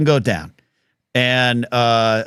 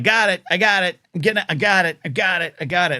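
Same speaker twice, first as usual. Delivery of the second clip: higher, hurried placating voice; backing-off solicitor; 5 semitones higher than usual. Retold or imitated. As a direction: placate the angry neighbor, backing away. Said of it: "was like".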